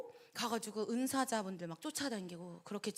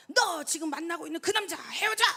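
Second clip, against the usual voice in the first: mock stern command, higher and louder; imitated scolding; 6 semitones higher, 6 dB louder than usual. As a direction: play the prophet ordering her to break up. Prophet scolds sister-in-law.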